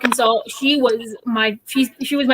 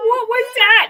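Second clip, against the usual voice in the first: surprised; 10 semitones higher, much slower than usual. Real, not acted. Reacting to the high note.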